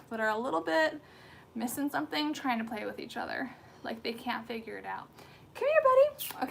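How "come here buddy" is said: high, loud coaxing call; high pet voice. Real, not acted. Owner coaxing her puppy over in a high pet voice. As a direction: sing it out to the dog.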